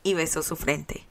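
plain reading voice

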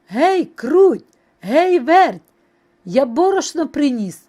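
loud, high hailing; calling out. A narrator's reading. Rooster back home with flour, calling out. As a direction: summon them with news. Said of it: "знов кличе мишенят".

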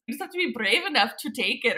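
half-sure mock Scottish, sliding toward Irish; Merida. Guest keeps imitating a film heroine, playful Scottish accent. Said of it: "I can imitate Merida".

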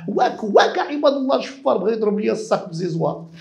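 mock outcry. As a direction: act out a woman crying thief. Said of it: "وبدات تغوت قدام البشر".

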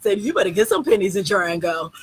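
loud, sassy shouting from the choir; hammed-up church-choir yell; mock choir shout. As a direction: belt it like a choir member calling out. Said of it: "she basically in the choir going".

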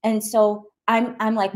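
ordinary delivery, nothing marked

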